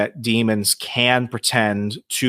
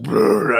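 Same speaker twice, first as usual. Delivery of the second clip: imitated spirit-box noise; 3 semitones higher, 3 dB louder than usual. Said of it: "you start getting this dark masculine voice".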